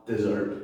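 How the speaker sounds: dessert with the weight on SSERT; stress on second syllable. Shown as a demonstration. Teacher lists the third word, second-syllable stress on dessert. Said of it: "comes at the second syllable of the word".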